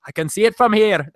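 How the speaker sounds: Irish attempt drifting toward an Indian accent; weak Irish accent that slides Indian; half-hearted Irish accent gone astray; failed Irish accent. Shown as a demonstration. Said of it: "I think that's more like East Indian".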